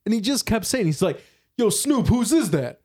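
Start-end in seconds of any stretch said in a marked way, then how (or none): 1.6-2.8 hype man. Retold or imitated. Hype man voiced in story.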